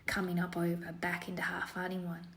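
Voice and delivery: a hammed-up Australian accent, light and breezy; yoga teacher putting on a cheeky Aussie accent for fun; playful Aussie accent. Yoga teacher guiding class in playful Aussie accent. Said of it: "I hope you enjoyed a little bit of fun Aussie accent".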